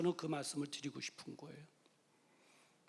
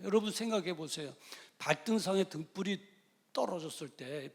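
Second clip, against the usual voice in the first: usual speaking voice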